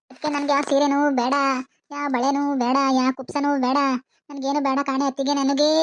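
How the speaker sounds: mock-tearful refusal with dragged endings; put-on weeping. Widow refuses sari and bangles from sister-in-law, fake lamenting. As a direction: play up the grieving widow. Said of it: "ಯಾಕಂಗ್ ಹತ್ತು ಹತ್ತು".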